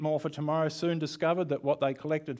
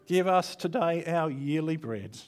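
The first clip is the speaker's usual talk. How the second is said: mock greedy prayer; 3 semitones higher than usual. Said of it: "this is how I'd like to pray".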